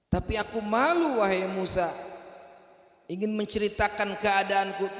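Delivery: ashamed woman pleading to Musa; shy young woman. Acted. Woman voiced in story.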